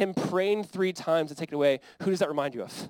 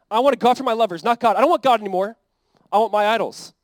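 defiant declaration; 3 semitones higher, 7 dB louder, faster than usual. Acted. Israel turning from God to idols, loudly defiant. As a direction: proclaim it forcefully, as a rebel would.

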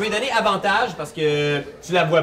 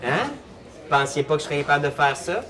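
woman's voice; 6 semitones lower, 5 dB quieter than usual. Acted. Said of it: "une voix de femme qui dit".

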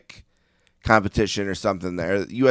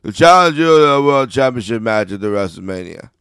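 wrestling promo; 6 dB louder than usual. Acted. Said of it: "cut a promo on us".

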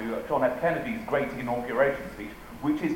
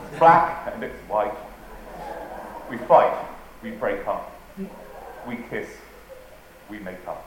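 lyric declaimed much louder, half laughing; mock-grand recital; 7 dB louder, slower than usual. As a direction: belt it out like sacred verse, cracking up. Mock-solemn recital of pop lyric.

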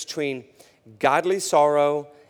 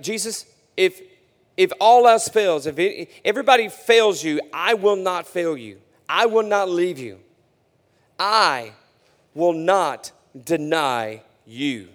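eager Peter, voice pitched up and louder, slowing on the last words; boastful Peter; 2 semitones higher, 3 dB louder than usual. Acted. Preacher voicing Peter promising Jesus he won't fail, boastful. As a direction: swear loyalty like a proud disciple.

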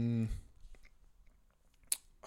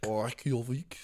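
put-on Icelandic accent; 2 semitones higher, 4 dB louder, slower than usual. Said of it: "Don't know the Icelandic accent".

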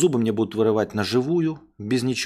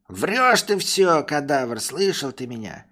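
accusing master; 4 semitones higher, slower than usual. Acted.

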